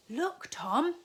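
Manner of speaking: Katy calling to her brother. A narrator's reading. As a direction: call across to Tom. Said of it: "called Katy".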